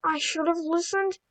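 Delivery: soft, humbled admission; quietly. Acted. James, humbled after nearly slipping off the rails, quietly admits it. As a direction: let it fall away, chastened. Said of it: "James said quietly".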